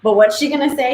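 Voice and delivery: ordinary talk, nothing marked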